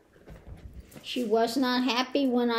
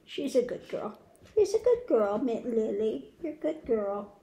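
gentle, hushed praise for a hurting pet; soft praise to the dog; 3 dB quieter than usual. Real, not acted. Owner soothing her sore dog, soft and tender. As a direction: coo quietly to reassure her.

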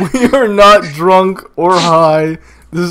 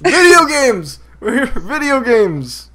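rallying announcement; 6 semitones higher than usual. Real, not acted. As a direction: sing out the topic to rein them in. Steering chat back to topic.

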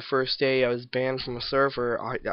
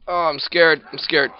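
mock scared; 4 semitones higher, 10 dB louder than usual. Playful fear before being charged.

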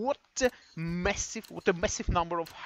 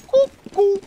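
excited shout; 14 semitones higher, 12 dB louder, slower than usual. Real, not acted. Caster calling out the nickname.

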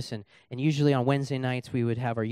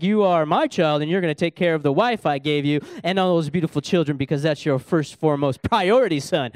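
lightly voiced Father in heaven, a little louder; a touch of divine authority; 4 dB louder than usual. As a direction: impersonate God firmly instructing his son. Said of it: "Father in heaven's like".

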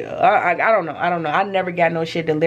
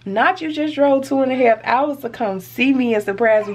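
excited disbelief; 5 semitones higher than usual. Retold or imitated. Shocked delight at surprise visit.

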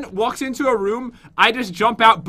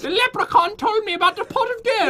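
high-pitched, exaggerated Irish accent; put-on Irish accent; 11 semitones higher than usual. Shown as a demonstration. Prompting partner who lost the accent, high mock Irish accent. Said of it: "The accent is gone".

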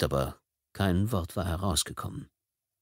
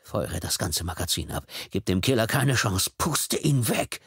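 darker inner urging. Acted. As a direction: coax him coldly into firing. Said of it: "Er gab sich Befehle".

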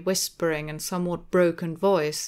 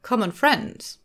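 a hint of hoarseness, rising in disbelief; Hyde's hoarse echo; 5 semitones higher, 4 dB louder, slower than usual. A narrator's reading. Hyde echoing the lawyer's words back, a little hoarse. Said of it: "echoed Mister Hyde a little hoarsely".

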